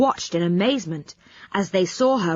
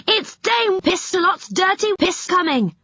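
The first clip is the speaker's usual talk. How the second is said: high, urgent warning cry; mock alarm, much higher; yelled warning; 11 semitones higher than usual. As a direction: shout it up the tree to the others. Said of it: "yelled Joe".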